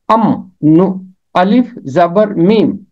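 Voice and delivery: अम, नू- broken slowly into letters; teacher sounding out अम्बो; sounded out. Shown as a demonstration. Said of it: "नून बन जाएगा मीम".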